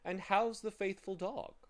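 high, genial question; friendly inquiry. A narrator's reading. Gentleman patting Tock, high and friendly. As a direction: lift the pitch in friendly greeting. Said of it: "he inquired, giving Tock".

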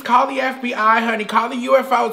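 a hint of a feminine character voice, half-hearted; Mimi. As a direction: play a dramatic woman looking for love. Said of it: "my name is Mimi".

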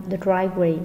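DRIVE-way, weight on "drive"; first-syllable stress. Shown as a demonstration. Teacher modelling word stress, "driveway" stressed on "drive". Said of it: "The driveway nhấn âm đầu".

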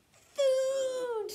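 loud, high, drawn-out cry; one long excited shout; hungry roar. A narrator's reading. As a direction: roar it out greedily. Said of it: "He roared his loudest roar".

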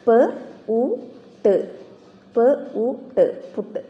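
പ, ഉ, ട് spaced out, then blended into പുട്ട്; teacher blending sounds; sounding out. Shown as a demonstration. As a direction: sound by sound, then the whole word. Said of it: "example, പുട്ട്".

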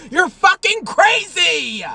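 incredulous. Real, not acted. Incredulous rant.

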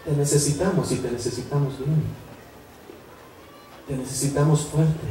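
soft, tender retold plea; súplica de hija. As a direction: quietly re-enact a daughter's appeal to her father. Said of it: "llegó un punto en que me dijo". (súplica tierna, en voz baja)

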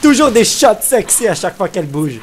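amused excitement. Real, not acted. Gamer jokes to viewers about sexy camera angles, gleeful. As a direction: point it out with glee.

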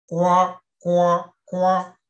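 loud startled repeated cry; surprised. Acted. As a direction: blurt it out in shock. Witches cry out in chorus.

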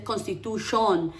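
"constitution" ending in a full "shon"; learner's-error "constitution", last vowel fully rounded; mistaken O ending. Shown as a demonstration. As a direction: say "constitution" with a round Spanish O at the end. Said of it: "no se dice".

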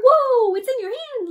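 startled warning to him. Acted. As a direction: Lovelock warning Bucky about the hammer. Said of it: "Lovelock said".

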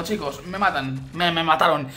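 normal talking voice

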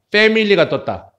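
"패밀리" opened with English F; corrected F sound. Shown as a demonstration. Teacher repeating for learners, "패밀리" with F. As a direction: blow an F to start "패밀리". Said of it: "F 사운드 윗니빨".

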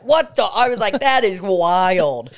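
loud, high burst of disbelief; stunned outburst, the last word drawn out; retold amazement. Reacting to the lady's accent on the stairs, amazed.

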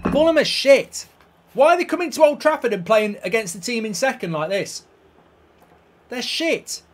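loud exasperated tirade; frustrated rant. Real, not acted. Fed-up gamer ranting about Fulham, loud. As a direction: vent at the opposing team.

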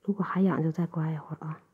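gentle ear-cleaning whisper. Acted.

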